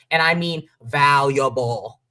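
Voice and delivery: "valuable" slowed down and weighted; stress on valuable. Real, not acted. Podcaster insisting on the true meaning of "valuable", stressed and slow. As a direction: lean hard on "valuable", spelling out what the word means. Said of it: "Emphasis on valuable".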